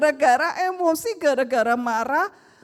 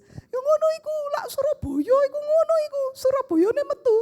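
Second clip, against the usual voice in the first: Surabaya Javanese; 12 semitones higher, faster than usual. Retold or imitated. Son explains in Javanese.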